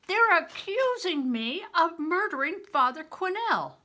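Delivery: high, loud blurt of alarm. Acted. Boy bursts out news to Bear, high and loud. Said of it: "I blurted out right away".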